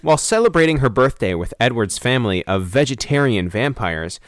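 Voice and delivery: deliberate storyteller read, letting the ending drop; synopsis read-out. Real, not acted. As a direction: read the blurb aloud, measured. Reading out a film synopsis.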